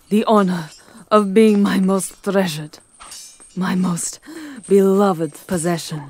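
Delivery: lightly voiced vampire king, possessive and proud; menacing vampire lord. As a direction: loom over her, savouring every word.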